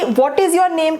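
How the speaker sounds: is lifted and punched; stress on is. Shown as a demonstration. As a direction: hit is in What is your name. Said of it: "किस तरीके से सवाल पूछ रहे हैं".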